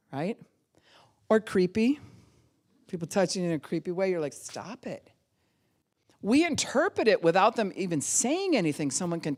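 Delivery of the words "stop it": muttered stop. Retold or imitated. Reaction to creepy touch.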